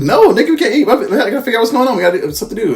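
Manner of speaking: imitating the distraught family, high and loud; mock frantic family. Family reacts to the death news.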